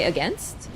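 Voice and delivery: "against" with a short e in the second syllable, like "uh-GENST"; Canadian pronunciation. Shown as a demonstration. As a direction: say "against" to rhyme with "fenced". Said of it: "Just have a Canadian say".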